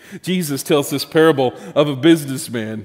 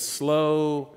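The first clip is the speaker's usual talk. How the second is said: inner voice; 5 dB quieter than usual. Retold or imitated. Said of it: "in my head, I said".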